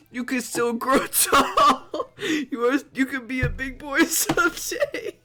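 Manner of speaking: high voice breaking into laughter; cracking up. Real, not acted. Streamer reading encouragement to short character, cracking up. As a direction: read on while losing it to giggles.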